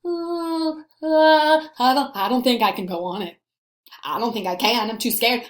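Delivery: hesitant, hammed-up fear of the ride; acting horrified. Teacher acting scared of a roller coaster for the class, mock-frightened stammer. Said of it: "I'm horrified".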